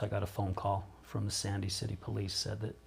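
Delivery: real, softly spoken sorrow; subdued grief. Real, not acted. Man recalling the police call about his ex-wife, quiet grief. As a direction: let the volume sink as the news lands. Recounting his ex-wife's death.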